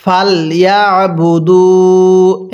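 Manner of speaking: very slow, drawn-out melodic recitation; slow chanted tajweed reading; Quran recitation. Shown as a demonstration. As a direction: recite each syllable long and sung. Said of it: "হ্যাঁ, পড়ুন".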